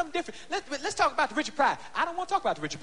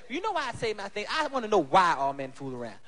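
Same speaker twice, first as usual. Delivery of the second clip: whiny woman; 3 semitones lower than usual. Retold or imitated. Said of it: "I had a woman ask me".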